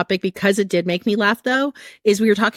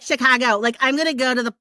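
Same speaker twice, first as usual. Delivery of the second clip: half-hearted go at a Michigan accent; attempted Michigan accent. Shown as a demonstration. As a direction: try the local Michigan way of saying Chicago. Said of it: "I'm gonna have, like, a Jersey accent".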